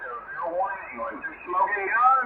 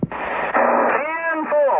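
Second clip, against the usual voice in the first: high, loud ten-four into the mic; CB radio call; 9 semitones higher, 4 dB louder than usual. Real, not acted. CB operator answering the English ham, loud high call. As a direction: bark it like a trucker on CB.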